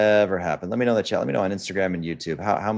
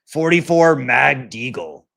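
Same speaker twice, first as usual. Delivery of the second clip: mocking commenter; 5 semitones higher, 6 dB louder, slower than usual.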